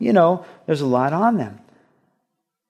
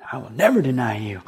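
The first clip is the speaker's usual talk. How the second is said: mock drowsy Peter; faster than usual.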